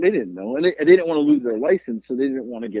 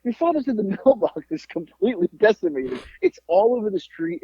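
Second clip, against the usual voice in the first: high-pitched mock mother reporting the damage; imitated mom; 7 semitones higher than usual. Mom telling her son about the wrecked mailbox, high mock alarm. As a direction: play an upset mom in a raised pitch. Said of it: "She's like".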